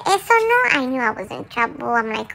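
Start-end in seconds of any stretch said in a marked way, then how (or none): 0.1-0.6 stern no. Retold or imitated. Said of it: "So when she said".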